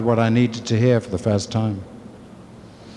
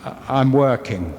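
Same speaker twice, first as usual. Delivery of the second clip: a hint of a polite grown-up excuse, slightly lower; the confident side of him making excuses, lightly voiced; big voice; 3 semitones lower than usual. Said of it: "And my big voice said".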